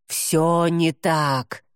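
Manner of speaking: furious demon. Acted. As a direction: drag it out in sudden rage. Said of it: "неожиданно разъярился Гамиэль".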